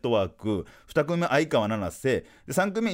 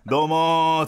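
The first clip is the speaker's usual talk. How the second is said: loud, drawn-out comedian's hello; full-force stage greeting; 2 semitones higher, 5 dB louder than usual. Retold or imitated. Comedian rehearsing his act for his daughter, full-force greeting. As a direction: belt out a manzai opener, stretching the end. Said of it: "満勤で".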